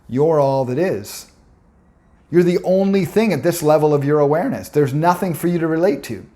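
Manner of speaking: lightly voiced wise goddess. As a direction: speak as a loving cosmic mother, building with awe. Mother Ayahuasca speaks to him.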